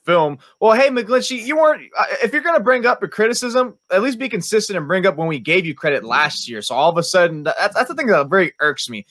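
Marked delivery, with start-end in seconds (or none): 0.6-5.3 impression of McGlinchey. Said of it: "That was the speaker's impression of Mike McGlinchey".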